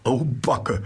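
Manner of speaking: high panting "au Backe" falling away; a breathless delighted sigh at the end; excited gasp. A narrator's reading. Mole unpacking the basket, panting with a falling sigh. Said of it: "und keuchte".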